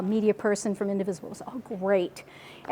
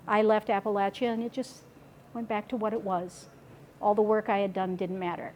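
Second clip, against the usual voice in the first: heavy retold confession; 3 semitones lower, 6 dB quieter than usual. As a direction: voice her regret softly. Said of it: "wow, this is heavy".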